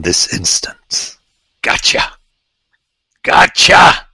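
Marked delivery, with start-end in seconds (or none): 1.6-2.1 a voiceless whispered "Gotcha". Real, not acted. Quiet then loud triumphant gotcha. 3.2-4.1 "Gotcha" much higher and loud; triumphant gotcha. Real, not acted. Quiet then loud triumphant gotcha.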